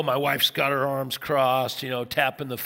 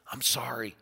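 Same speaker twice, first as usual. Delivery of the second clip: contrite apology; 3 semitones lower, 8 dB quieter than usual. Acted. Contrite apology after outburst, acted.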